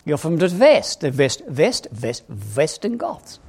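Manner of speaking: lightly put-on German accent, V for W; mock German accent. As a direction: say "West" with a touch of German. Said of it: "Sorry about the German accent".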